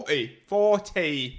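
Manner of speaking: Forty repeated emphatically in Cockney; Cockney accent. Pretend. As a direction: insist on Forty in broad Cockney. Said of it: "interpreter for everyone else who can't understand".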